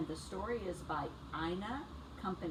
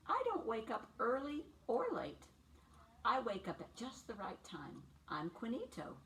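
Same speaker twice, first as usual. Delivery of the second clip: lively picture-book read for little ones; bright storybook read-aloud for preschoolers; reading to children. A narrator's reading. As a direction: read it like story time on the rug.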